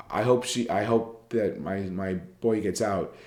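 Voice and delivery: slow, halting, lightly sad delivery; sad example quote. Shown as a demonstration. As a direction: read it slowly, with understated sorrow. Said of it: "after crying and with her head down".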